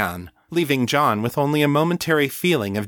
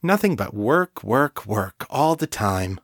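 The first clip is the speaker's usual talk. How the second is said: teasing. Acted. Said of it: "she said teasingly".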